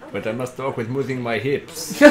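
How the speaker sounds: put-on Latino accent.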